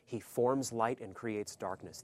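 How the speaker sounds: slow, with a firm stress on forms. Shown as a demonstration. Preacher repeating the verse for the congregation, slow and firm. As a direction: repeat it slowly and firmly. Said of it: "that he forms light and creates darkness".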